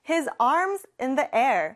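"I put my bag down" said word by word; very slow model. Shown as a demonstration. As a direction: model the sentence slowly for repeating. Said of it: "마지막 문장 볼게요". (따라 하도록 아주 천천히)

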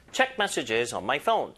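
very slow, phone stressed. Shown as a demonstration. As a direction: stretch out, landing on phone. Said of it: "제가 강조를 합니다".

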